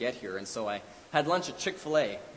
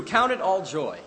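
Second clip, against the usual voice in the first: higher, louder proclamation of the verse; proclaimed; 6 semitones higher, 7 dB louder than usual. Acted. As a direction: ring the verse out loud. Preacher repeats verse two ways.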